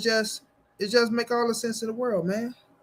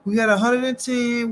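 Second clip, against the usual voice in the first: a bit higher and louder, proud; hyped announcement; 4 semitones higher, 3 dB louder than usual. Real, not acted. Telling the stream their viewer count, proudly hyped. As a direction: announce it like a milestone.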